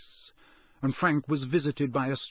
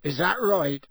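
raised, rough retort; 5 semitones higher, 5 dB louder than usual. A narrator's reading. Intruder scoffing at the lord's threat, roughly. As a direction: throw it back loud and rough. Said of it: "said Frank roughly".

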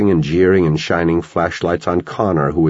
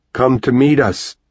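bubbling cry; 7 semitones higher than usual. A narrator's reading. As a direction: cry out, almost bubbling over. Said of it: "Paulie cried. His voice almost bubbled".

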